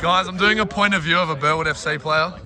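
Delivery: a put-on Australian accent, voiced lightly; a commentator hamming up Australian, not fully committed. Commentator mate putting on Australian accent for halftime bit. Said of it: "I didn't know you had an Australian accent in you".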